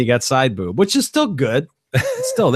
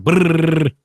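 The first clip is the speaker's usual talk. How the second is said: rolled R trill; 4 semitones higher than usual. Shown as a demonstration. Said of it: "It's your turn".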